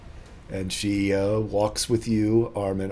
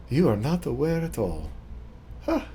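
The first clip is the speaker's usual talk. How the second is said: lightly put-on French accent; 5 semitones higher, 5 dB quieter than usual. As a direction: play a knowing French lady. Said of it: "get in my French accent".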